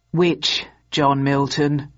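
slow, tired sergeant question; weary gruff desk sergeant. A narrator's reading. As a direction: drag it out like a bored sergeant. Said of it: "asked the desk sergeant wearily".

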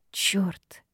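whispered curse under the breath; muttered curse. A narrator's reading. Secretary startled by the rude demon, whispered curse. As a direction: breathe the curse out, barely there. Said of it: "пробормотала я".

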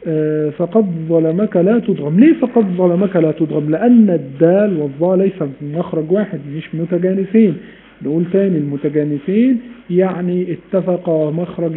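usual speaking voice

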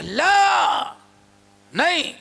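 sharp refusal. Retold or imitated. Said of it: "بڑے زور سے کہا".

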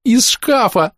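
put-on high, loud, thrilled little girl; delighted girl. A narrator's reading. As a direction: squeal it with delight. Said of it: "восторженно".

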